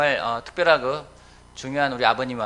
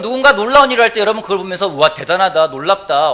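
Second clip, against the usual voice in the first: loud, raised-pitch pulpit delivery; forceful preaching; 6 semitones higher, 13 dB louder than usual. Real, not acted. Preacher telling the congregation of Pentecost, forceful preaching. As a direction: preach it out with full projection.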